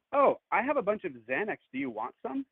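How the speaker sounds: high-pitched mimicked casual offer; breezy date. Date in hot tub offering Xanax, mock breezy.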